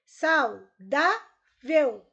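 "Saudável" split into sau, dá, vel with pauses; "Saudável" broken up for dictation; syllable by syllable. Shown as a demonstration. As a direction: say "Saudável" loudly and slowly, each syllable apart. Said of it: "Separe as sílabas das palavras".

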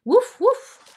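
high, loud woofing; two sharp high barks, acted out; dog barks. Grandmother reading Biscuit book to children, dog barks.

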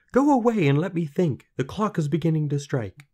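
high, loud frantic voice; panicked. A narrator's reading. Queen dreading the little man's arrival, panicked. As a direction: blurt it out in panic.

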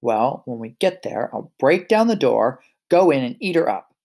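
lightly voiced menacing wolf; a hint of a hungry wolf; big bad wolf. Wolf voice in read story.

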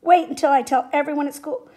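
loud bully's taunt; mocking, whiny. A narrator's reading. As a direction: threaten to tell, mockingly. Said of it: "in a mocking, whiny voice".

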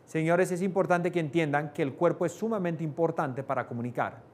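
droning monotone lecture, fading at the end; mock a dull conference speaker; stiff boring speaker. Shown as a demonstration. Mocking a lecturer who holds water and mic. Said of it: "Y da la conferencia así".

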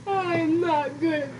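slow mock sob; whiny fake cry. Fake crying over losing.

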